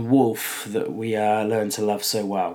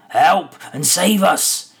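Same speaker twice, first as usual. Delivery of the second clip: higher, louder, slow alarmed outcry; frightened cry; 7 semitones higher, 7 dB louder, slower than usual. A narrator's reading. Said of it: "cried the farmer".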